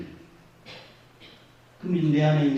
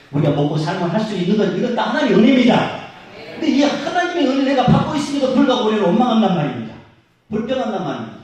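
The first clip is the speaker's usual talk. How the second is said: loud, higher, intense sermon climax; impassioned preaching; 7 semitones higher, 7 dB louder than usual. Real, not acted. Preacher rebuking the grumbling church, impassioned. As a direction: pour it out with conviction.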